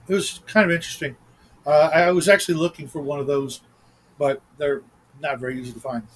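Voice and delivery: talking while chewing gum; words around a wad of gum. Real, not acted. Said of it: "Excuse the gum, folks".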